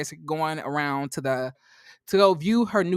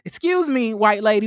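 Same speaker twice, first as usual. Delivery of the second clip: "Excuse me" pitched higher and pushed louder; indignant; 3 semitones higher, 5 dB louder than usual. Retold or imitated. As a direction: throw "Excuse me" back at her, offended. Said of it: "I was like".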